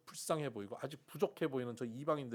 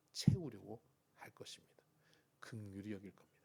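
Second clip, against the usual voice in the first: whisper; 4 semitones lower than usual. Real, not acted. Pastor to congregation, hushed whisper. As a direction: drop into a hushed whisper on 긍휼히 여길. Soft preaching aside.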